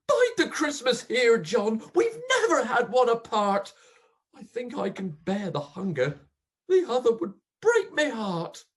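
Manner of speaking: pleading call to her husband, loud and high; dying wife crying out to her husband. Acted.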